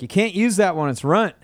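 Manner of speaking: high Texan redneck twang; redneck Texas accent. Retold or imitated. Redneck surf pupil warning his teacher, Texas accent. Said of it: "this redneck that I taught".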